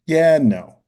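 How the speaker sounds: mock-caught-out dad; retold hedging. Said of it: "I'm like".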